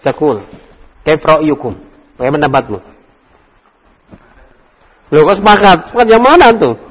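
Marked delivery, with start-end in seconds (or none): 5.1-6.8 surprised. Real, not acted. Teacher surprised students agree.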